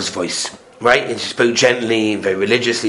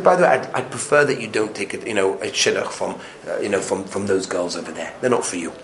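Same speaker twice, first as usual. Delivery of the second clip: gentle advice; 3 semitones lower, 5 dB quieter than usual. Acted. Father gently advising his son.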